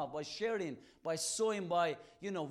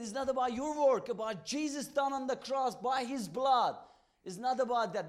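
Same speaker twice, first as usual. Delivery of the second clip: loud, higher, pressing the point; insistent shout; 5 semitones higher, 5 dB louder than usual. Retold or imitated. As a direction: raise the voice to drive it home. Preaching to taxi driver, shouted.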